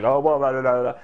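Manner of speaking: babbled nonsense syllables; goofy mock-speech babble; gibberish. Shown as a demonstration. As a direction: rattle off silly gibberish. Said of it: "You can just speak gibberish".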